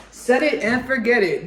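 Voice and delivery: lightly hammed-up sales slogan; shopping-channel pitch. Recalling crock-pot sales on HSN, mock sales pitch. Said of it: "on Q V C and H S".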